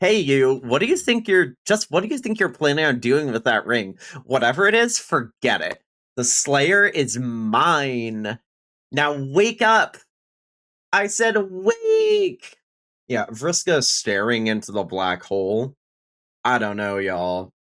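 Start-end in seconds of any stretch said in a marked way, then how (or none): 0.0-12.6 put-on high, sing-song Valley Girl voice, mine dragged out. Streamer reading a comic character's lines aloud, Valley Girl voice for Vriska. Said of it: "I have to do Valley Girl for Vriska".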